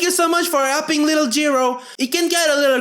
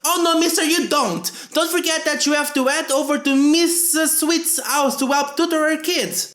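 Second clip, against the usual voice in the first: stern mom; 4 semitones higher than usual. Acted. Voicing mom scolding.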